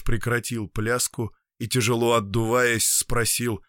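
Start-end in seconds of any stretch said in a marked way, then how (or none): none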